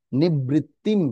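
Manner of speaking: নিবৃত্তিম ending in a clear m; final m sound. Shown as a demonstration. Teacher showing the anusvara rule, নিবৃত্তিম with final m. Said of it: "অনুষ্কার উচ্চারণ কি হবে?".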